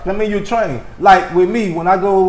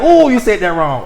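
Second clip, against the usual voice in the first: mock cringe; 4 semitones higher, 4 dB louder than usual. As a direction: act out cringing at someone's mistake. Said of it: "Do you cringe like".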